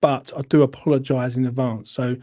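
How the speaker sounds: calm before a rant; forced calm. Real, not acted. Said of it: "try and remain calm".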